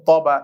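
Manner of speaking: "তবা" with a thick, full first sound; thick Arabic letter. Shown as a demonstration. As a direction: say "তবা" with a heavy ত. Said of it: "পেয়েছি কি মোটা". ("তবা"-র ত মোটা করে উচ্চারণ)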